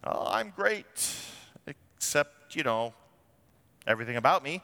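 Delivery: sarcastic impression of a proud believer; mock arrogance. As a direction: play the self-satisfied show-off. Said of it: "place for arrogance".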